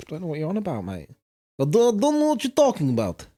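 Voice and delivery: put-on Putin in a Welsh accent; lilting Welsh voice, playing innocent. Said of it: "that was a perfect Welsh accent".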